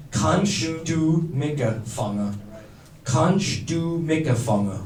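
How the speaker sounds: Kannst du Micke vangen said slowly, word by word; dialect demonstration. Shown as a demonstration. Teaching the audience the dialect phrase, slow demonstration of Kannst du Micke vangen. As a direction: spell out Kannst du Micke vangen at half pace. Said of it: "in the dialect we say".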